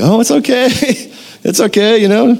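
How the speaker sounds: high-pitched, lightly acted comforting; reassuring dad. Dad to scared two-year-old daughter, acted reassurance. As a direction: soothe a little one in a high voice.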